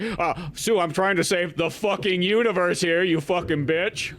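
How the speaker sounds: fed-up scientist snapping at his wife; mock annoyed Reed. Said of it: "He's like".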